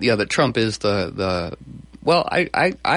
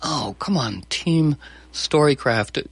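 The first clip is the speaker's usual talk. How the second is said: mock despairing plea; 4 semitones higher, slower than usual. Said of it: "I sank to my knees going".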